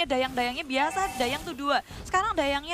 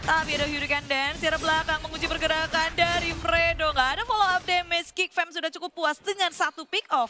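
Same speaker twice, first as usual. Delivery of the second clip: excited; 4 semitones higher, 3 dB louder than usual. Real, not acted. Caster calls a kill.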